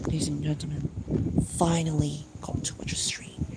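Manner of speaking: hushed announcer whisper; whispered announcement. Acted. Streamer whispering in a put-on voice to chat. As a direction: breathe it like a secret broadcast. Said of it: "for triggering that accent".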